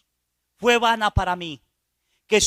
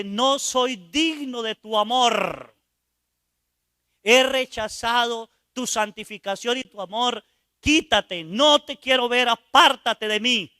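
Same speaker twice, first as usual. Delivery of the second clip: rising to a loud, slow apártate de mí; a shamed man driving the Spirit away; pleading refusal; 2 semitones higher, 4 dB louder than usual. Retold or imitated. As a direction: build from a plea to a shout.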